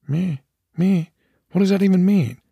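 high-pitched, puzzled dog voice; indignant dog. Acted. Maggie baffled by the cat's reply, high and indignant. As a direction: question the cat in a high dog voice. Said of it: "Maggie and the cat exchanged telepathic remarks".

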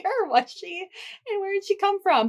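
retold bewilderment. Retells bafflement at dog turning up.

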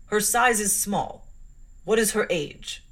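lightly voiced stern clergyman, slow and weighty; a hint of a solemn bass, drawn out slowly. Clergyman sizing up a small girl, slow and solemn. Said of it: "said solemnly and in a bass voice".

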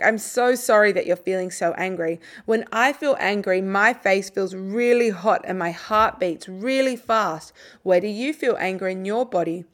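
put-on slow, gentle words to an angry child; calm them without judging, unhurried; calm, slow, quiet tone. Shown as a demonstration. Parent calmly naming a child's anger, slow and gentle. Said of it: "use a calm, slow, quiet tone of voice".

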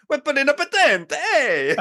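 very high, squeaky mock-Italian cartoon voice; Luigi-style imitation. The speaker mocking Eddie's tent video voice. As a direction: parrot it back like Luigi from Mario Brothers. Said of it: "you sounded like Luigi from Mario Brothers".

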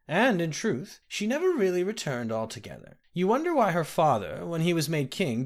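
a hint of a kindly old woman; old nursemaid. The speaker voiced an old nursemaid.

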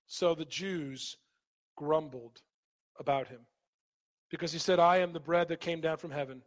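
understated Bible reading from the pulpit; scripture reading. Real, not acted. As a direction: read the verses through briskly in a subdued pitch. Reads scripture aloud to congregation.

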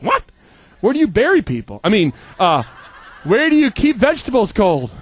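incredulous joke. Retold or imitated. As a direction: blurt it, then laugh it off. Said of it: "I'm like".

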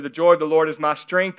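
a son reading with devotion, sincere. Shown as a demonstration. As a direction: read it earnest, with a lift at the end. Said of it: "See the difference?".

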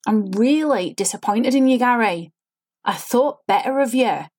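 sing-song line with pushed intonation, no real feeling; fake forced inflection. Shown as a demonstration. Coach shows students how a lifeless, over-inflected line sounds. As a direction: work the tune of the line instead of meaning it. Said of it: "When you start hearing your lines sounding like that".

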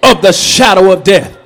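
scripture recital. Acted. Reciting Psalm 23.

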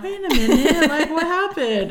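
high, bewildered questioning; mock confusion with a laugh in it; imitating puzzled child. Child puzzled as trick fails.

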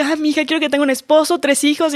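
imitando a una mamá soñadora, voz algo más aguda; madre ilusionada. Retold or imitated. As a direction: imagina a la mamá planeando la vida de su hija. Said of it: "O la hija de que". (papás imaginando el futuro de su hija, voz ilusionada más aguda)

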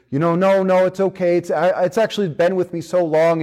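backing away from the offer; a lightly voiced nervous old man; nervous refusal. Man refuses to give up lizard.

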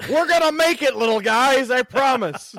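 very high, sweet encouraging voice; encouraging packages. Pretend. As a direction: cheer on the little packages, squeaky. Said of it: "Give 'em encouragement".

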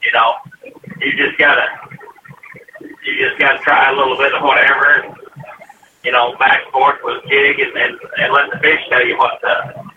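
muffled, bubbling phone line; underwater. Real, not acted. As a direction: sounds like talking underwater. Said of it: "It sounds like you're underwater".

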